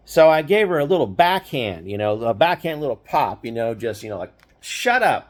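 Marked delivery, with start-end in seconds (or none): 4.6-5.3 mild mock snap. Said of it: "like that".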